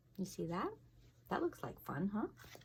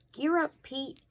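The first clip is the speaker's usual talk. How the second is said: calling out; 8 semitones higher, 7 dB louder than usual. Acted. Calling out the alarm.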